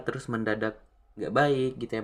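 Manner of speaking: ordinary delivery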